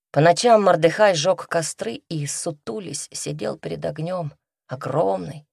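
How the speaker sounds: ordinary delivery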